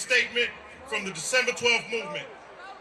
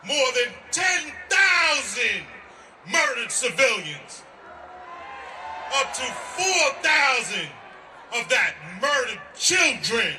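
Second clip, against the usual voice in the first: rally speech; 3 semitones higher, slower than usual. Real, not acted. Shouted rally statement.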